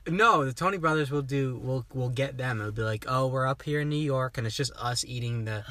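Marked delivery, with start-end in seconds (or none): 3.1-5.6 put-on light New York accent, Bronx flavor; a mild New York accent for two guys in the Bronx. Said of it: "it's a New York accent".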